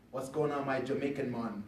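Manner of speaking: lightly imitated Jamaican accent; a friend's Jamaican accent, just hinted. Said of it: "in his Jamaican accent".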